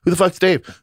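mock confusion. Confused by daughter's words.

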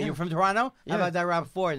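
slowed, drawn out punchline push; milk the dud joke slowly; slow hammed joke. To the Toronto guest, a slow hammed-up dud joke.

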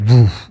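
imitated whoosh of a drop; drawn-out "woof" sound effect. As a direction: mimic something plunging. Imitates the fever dropping fast.

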